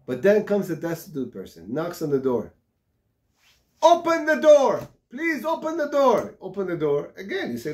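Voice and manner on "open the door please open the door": much higher, louder, slow begging; desperate pleading. Acted. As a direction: plead to be let in, slowly and loud. Destitute man begging at door.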